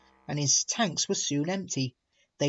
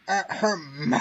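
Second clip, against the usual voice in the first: warning cough; 4 semitones higher than usual. A narrator's reading. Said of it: "the Fat Controller coughed".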